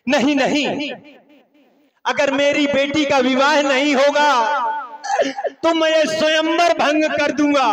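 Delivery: king defiantly addresses Mithila's scholars; rising declamation. Acted. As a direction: hurl the challenge across the court. Janak challenges the assembled pundits.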